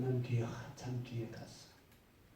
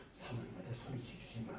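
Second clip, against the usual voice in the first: "사모님한테 소리 지르지 마" said much softer and gentle; soft repeat; 10 dB quieter than usual. Shown as a demonstration. Pastor gently repeating the warning to the husband, softly. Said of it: "따뜻하게 대해줘".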